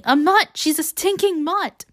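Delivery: high, raging acted yell. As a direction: yell the insult, stretching the last words. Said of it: "Peeta keeps yelling".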